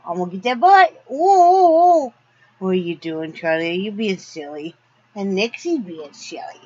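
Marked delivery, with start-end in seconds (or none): 0.1-2.1 playful. Real, not acted. Playfully chasing the dog.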